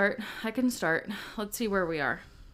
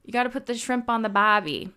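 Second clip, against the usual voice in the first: a mild attempt at an Australian accent; Australian accent try; 3 semitones higher than usual. Shown as a demonstration. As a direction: toss off a cliché line in a shaky Australian accent. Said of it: "Let me see if I could do an Australian accent".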